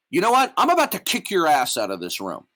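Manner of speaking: angry outburst. Real, not acted. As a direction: snap with rising anger. Threatening to throw him out.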